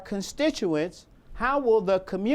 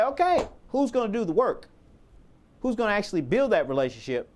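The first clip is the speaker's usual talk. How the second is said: higher-pitched, pointed question to the room; pointed challenge; 5 semitones higher than usual. Retold or imitated. Facilitator asks who will do the work, challenging. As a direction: put the team on the spot.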